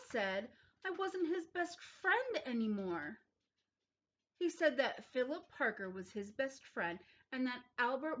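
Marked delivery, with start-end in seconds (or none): 0.8-3.2 put-on upset child.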